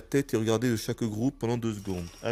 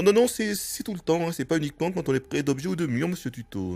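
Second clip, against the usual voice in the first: mock lecturing; 6 semitones higher than usual. Real, not acted. Contradicting the tutorial.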